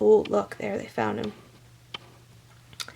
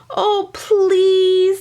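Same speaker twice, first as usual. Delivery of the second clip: put-on high pleading kid voice; louder, higher whiny plea; begging child; 9 semitones higher, 5 dB louder than usual. A narrator's reading. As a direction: beg like an eager little child. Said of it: "begged Meg and Sean".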